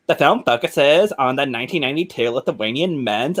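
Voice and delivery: lightly put-on dumb girl voice. Reading film summary in a different voice, mock dumb girl. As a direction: read it like a clueless girl, stumbling over names. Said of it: "I read it like a dumb girl".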